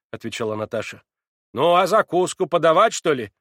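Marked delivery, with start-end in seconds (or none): 1.5-3.3 much louder and higher, grumbling; rude, cross. A narrator's reading. Maid Mavra grumbling at Natasha, rude and cross. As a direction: scold like a put-out maid.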